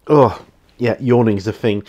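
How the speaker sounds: normal talking voice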